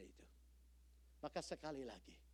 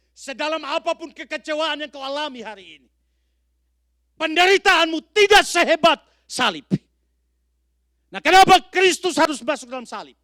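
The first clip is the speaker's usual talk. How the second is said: higher and much louder, hammering each sedalam apapun; preaching at full force; 28 dB louder than usual. Acted. Preacher thundering at the congregation about suffering, full-force preaching. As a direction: build to a thundering pulpit cry. Preaching climax, rising repetition.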